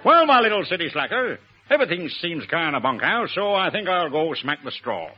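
lightly hammed-up American accent; Bob Hope. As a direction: put on comic American slang talk. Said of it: "my impersonation of Bob Hope talking English".

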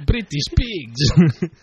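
put-on slow French-accented taunt; drawn-out comic French jeer; mock French accent. Co-host chiming in with insults, mock French accent.

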